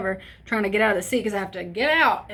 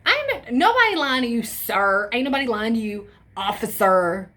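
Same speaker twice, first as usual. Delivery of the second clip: acting hard; 4 dB louder than usual. Drunk teen denies lying to the cop, loud and irritated. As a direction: act annoyed so you seem sober. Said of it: "I'm just like".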